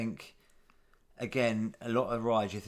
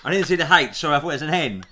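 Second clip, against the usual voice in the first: laughing apology; 4 semitones higher, 9 dB louder than usual. Real, not acted.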